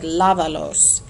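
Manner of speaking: "lávalos" stressed on the first syllable, LA; "lávalos" as LA-va-los, falling after the first A. Shown as a demonstration. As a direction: punch the LA of "lávalos", let the rest fall. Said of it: "I stressed that first A. I said".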